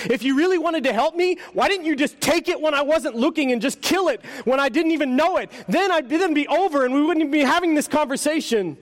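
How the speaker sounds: high, whining complaint; a hurt ghost accusing the angel; tormented ghost. Acted.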